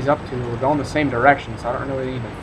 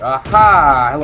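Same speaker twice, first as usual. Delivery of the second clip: excited aha; 3 semitones higher, 12 dB louder, slower than usual. Real, not acted. Spots an enemy tank in game.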